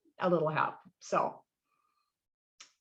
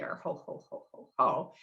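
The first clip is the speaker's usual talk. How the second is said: ho ho chuckle; 7 semitones lower, 4 dB quieter than usual. Shown as a demonstration. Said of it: "so it's not".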